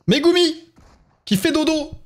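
high, doting singsong; high-pitched cooing. Real, not acted. Streamer noticing Megumi is asleep, high cooing. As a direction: coo in a high voice.

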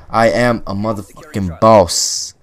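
drawn-out cocky boast; slow boastful brag. Real, not acted. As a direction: savor every word of the brag. Bragging after a fury kill.

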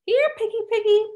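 high sing-song calling, dragging out the last words; taunting call. Acted. Drunk pretties hunting Tally, calling in high sing-song taunt. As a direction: call her like a pet you are hunting.

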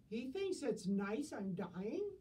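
put-on shocked old lady. Deaf lady aghast.

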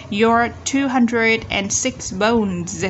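slow reading, "bones" ending on a buzzed Z; Z ending sound. Shown as a demonstration. Teacher reading for students, slow with voiced ending. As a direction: read slowly and buzz the end of "bones". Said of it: "Z ending sound".

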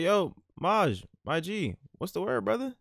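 loud, high hype call; loud greeting. Pretend. Friend hypes up Maj with a loud high greeting. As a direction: shout a cheery high hello.

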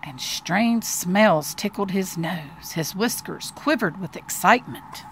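put-on slow, deliberate reading to a child; expressive children's story narration; storybook narration. A narrator's reading. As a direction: read it like a picture book, lingering on key words.

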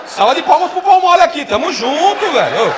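loud, high cheering shout; rally the crowd; applause call. Real, not acted. Comedian asking the audience to applaud, loud shout.

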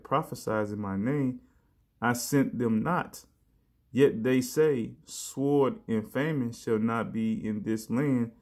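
slow, deliberate preaching read; slow scripture reading. Acted. Preacher reading the prophecy to his listeners, slow and weighty. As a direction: lay each verse down slowly.

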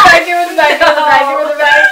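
loud pleading cry; desperate yelling. Real, not acted. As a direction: beg loudly for it back. Begging for the chocolate.

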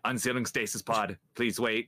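flat computer voice; robot voice. Acted. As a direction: read it like a machine. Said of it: "You sound just like the robot".

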